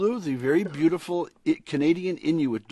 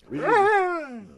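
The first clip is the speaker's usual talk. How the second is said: higher, louder insistent prompt; 4 dB louder, slower than usual. Shown as a demonstration. Author urging his dog to read her lines, louder.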